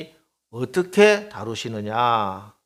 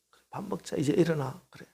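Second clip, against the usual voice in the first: tender coaxing. Retold or imitated. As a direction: coax Elijah to get up tenderly. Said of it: "천사를 보내서 만져주시고". (엘리야를 다정하게 달래며)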